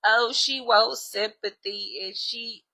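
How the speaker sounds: slow, sneering put-on voice; mocking people who whine about her; mock whiny gossip. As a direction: drag it out to mock them. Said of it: "Talk about some".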